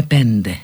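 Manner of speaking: «πέντε» με το ν να ακούγεται πριν από το d; τόνισε το ν στο «πέντε»; με καθαρό νι. Shown as a demonstration. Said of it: "Αλλιώς εξαφανίζουμε το νι". («πέντε» με έρρινο ντ)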